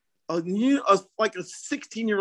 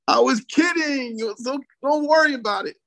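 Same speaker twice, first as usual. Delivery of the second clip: mock-urgent reassurance; 8 semitones higher than usual. Coach calming the friend he just pranked, urgent reassurance. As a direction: reassure insistently, pitched well up.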